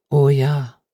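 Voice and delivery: drawn-out, thoughtful assent; unhurried agreement; slowly. A narrator's reading. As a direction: agree slowly, lingering on the words. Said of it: "sagte Ben Weatherstaff langsam".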